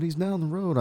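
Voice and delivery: high, light mock Hispanic accent. Passerby answers where his friend is, light mock Hispanic accent. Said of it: "Is that your Hispanic accent?".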